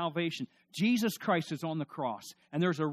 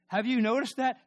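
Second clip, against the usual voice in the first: higher, louder preaching repeat; emphatic repeat; 9 semitones higher, 8 dB louder than usual. Acted. Preacher presses the congregation, louder and higher. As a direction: drive the question home, louder.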